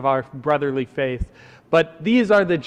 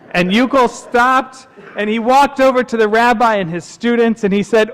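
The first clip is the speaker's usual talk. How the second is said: louder, higher storyteller; story narration; 9 semitones higher, 7 dB louder than usual. A narrator's reading. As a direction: build up to the character's answer. Tells a camp story.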